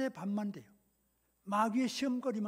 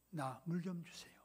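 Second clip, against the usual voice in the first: soft, lower gentle plea; quiet approach; 4 semitones lower, 9 dB quieter than usual. Acted. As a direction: ask softly, without any judgment. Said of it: "조용히 다가가셔가지고". (조용히 다가가 부탁하듯)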